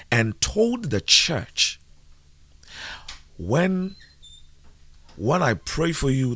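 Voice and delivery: high, swooping preacher delivery; preaching. Acted. Preacher warning the church that days are numbered, preaching. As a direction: preach with rising emphasis and long pauses.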